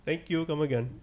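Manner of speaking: lightly voiced Indian accent; a hint of mock Indian accent. Friend closing the shopkeeper bit, light Indian accent. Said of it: "can you do that Indian accent".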